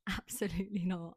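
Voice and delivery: giggling absolutely not; laughing. Real, not acted. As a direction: laugh through the refusal. Repeated refusal, laughing.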